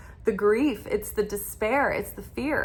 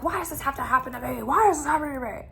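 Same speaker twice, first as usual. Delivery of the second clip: whiny self-pity; 4 semitones higher, 3 dB quieter, much faster than usual. Retold or imitated. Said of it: "'cause it's like".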